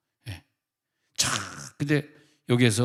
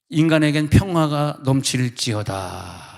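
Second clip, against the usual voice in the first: slow, weighty pronouncement; solemn proclamation; 3 dB louder, slower than usual. Acted. Preacher proclaiming peace to the congregation, slow and weighty. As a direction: proclaim it like scripture.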